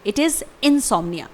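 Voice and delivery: slow model of insomnia; careful teacher's repeat; slow clear pronunciation. Shown as a demonstration. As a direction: say it slowly for learners. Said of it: "इसे हम insomnia भी pronounce कर सकते हैं".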